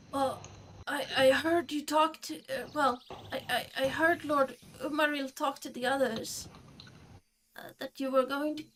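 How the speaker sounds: high, stammering little creature; tiny nervous creature voice. Acted. Creature tells what it overheard.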